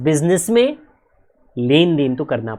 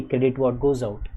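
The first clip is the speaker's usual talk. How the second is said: slow rule recital; 3 semitones lower, 4 dB quieter, much slower than usual. Shown as a demonstration. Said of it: "Please understand".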